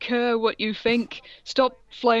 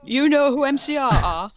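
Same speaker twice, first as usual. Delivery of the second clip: higher, louder stunned question; mock gasp repeated; 5 semitones higher, 4 dB louder than usual. Goth girl amazed at the teacher, mock gasp again. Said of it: "I gasped".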